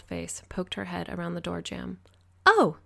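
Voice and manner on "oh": high, loud burst of surprise; exclaimed. A narrator's reading. Woman finding the patient awake, exclaiming. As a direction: exclaim it brightly, pitched way up. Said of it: "she exclaimed".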